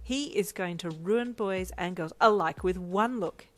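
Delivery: loud, slow, emphatic gushing; delighted. A narrator's reading. Boyfriend raving about the baby's looks, delighted. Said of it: "he said in delight".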